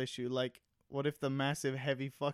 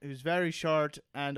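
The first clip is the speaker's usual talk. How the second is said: loosely put-on Irish lilt; attempted Irish accent. Comic describing a little magical Irishman to his co-host, attempted Irish accent. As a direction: have a rough go at an Irish accent. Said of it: "speaks exactly like this".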